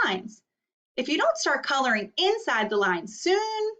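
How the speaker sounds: prim crayon close to losing it; a hint of a neat-freak crayon getting fed up; Purple Crayon's letter. Teacher reads Purple Crayon's letter.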